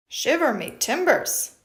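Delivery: a touch of startled pirate; lightly voiced scared pirate; mock pirate surprise. Pirate puppet startled, mock surprise. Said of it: "pirate is surprised and a little scared".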